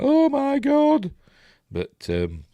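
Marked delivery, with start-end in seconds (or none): 0.0-1.1 slow, very high shocked cry; horrified gasp. Retold or imitated. Daughter seeing her brother shoot their dad, high and shocked. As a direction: draw out a high horrified "oh my God". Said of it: "she's like".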